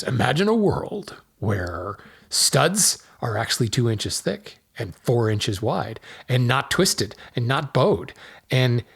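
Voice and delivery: lightly voiced epic trailer narrator; a hint of dramatic trailer announcer; movie trailer voice. Shown as a demonstration. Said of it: "I'm gonna enter my best movie trailer voice".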